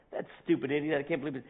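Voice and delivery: road rage mutter. Retold or imitated. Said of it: "I'm like".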